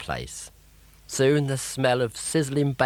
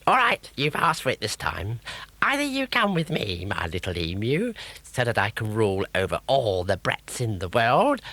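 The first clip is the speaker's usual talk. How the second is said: threatening witch. Acted. Grotbags threatening.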